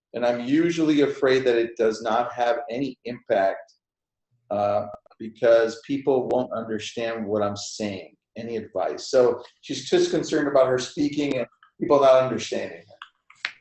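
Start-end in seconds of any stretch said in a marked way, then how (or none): none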